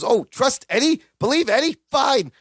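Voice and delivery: mock Larry, scoffing and rising; rising scoff at trusting Eddie; sarcastic outburst. Larry sarcastic, slamming phone.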